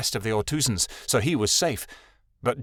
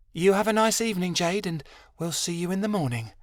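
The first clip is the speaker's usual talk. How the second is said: pleasant; 6 semitones higher than usual. A narrator's reading. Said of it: "Amira said pleasantly".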